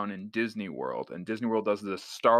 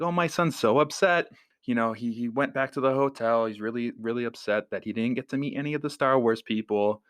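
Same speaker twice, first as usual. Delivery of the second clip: imitating mom; 3 semitones higher than usual. Mom voiced.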